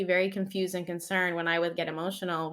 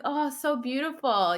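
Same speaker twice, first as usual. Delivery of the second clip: imitating son; 6 semitones higher than usual. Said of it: "being like".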